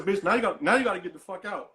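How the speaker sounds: mild mock yell of gotta get the fuck out. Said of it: "I said".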